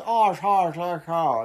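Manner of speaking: posh Eton version. Retold or imitated. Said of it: "make it less guttural".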